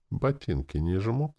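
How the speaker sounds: sly teasing question, slowed, rising on жмут; mock-innocent jab; snide. A narrator's reading. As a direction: needle him with a sneer. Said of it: "ехидно спросила демон".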